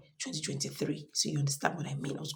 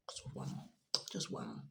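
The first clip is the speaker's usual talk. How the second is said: quiet emphasis; 12 dB quieter than usual. Real, not acted. Stressing the missing score.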